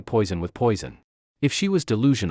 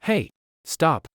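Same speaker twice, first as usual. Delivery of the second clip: shouted; 6 semitones higher than usual. A narrator's reading. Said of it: "jumped up and shouted".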